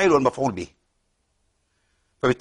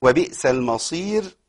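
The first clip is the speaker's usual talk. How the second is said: very slow melodic tajweed chant; Quran recitation; slower than usual. Shown as a demonstration. Teacher chanting the verse to show the stops, slow recitation. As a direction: draw every vowel out in recitation.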